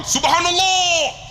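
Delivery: high, slow, loud drawn-out call; leading zikir. Retold or imitated. Guide calling zikir to his pilgrims, loud call. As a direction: call SUBHANALLAH out long and loud. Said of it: "Saya pegang".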